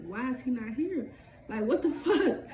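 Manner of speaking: mock outrage breaking into a laugh; laughing disbelief. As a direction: laugh through the what the fuck. Retelling her angry thought, laughing.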